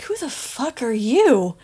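slow, scornful once-over; dismissive challenge. Acted. Supervisor sizing up Benny, scornful and slow. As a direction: size the stranger up with contempt.

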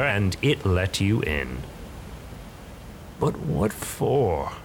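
a hint of feline menace; sly bargainer. Bargainer voice held.

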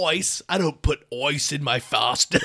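broad put-on Australian vowels; jokey Australian twang; mock Australian accent. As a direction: say ice as "oice" like a cartoon Aussie. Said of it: "they pronounce all their I's like an oi".

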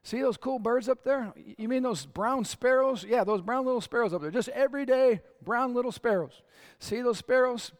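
put-on like showing kids birds overhead, bright and eager; excited pointing. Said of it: "You know what else Jesus said?".

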